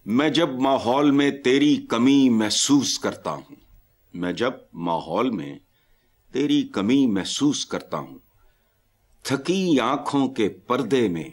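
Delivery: slow, measured poetry reading; poem recitation. Acted. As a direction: recite the verse slowly. Recites a couplet.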